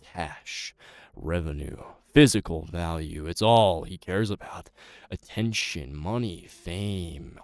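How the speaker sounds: a lightly voiced brooding orator; dramatic monologue. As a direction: condemn the fraud superhero solemnly. Acted villain-denouncing monologue.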